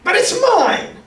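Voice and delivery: high, shrill-pitched claim of the bird; screaming. A narrator's reading. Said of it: "screamed the bird".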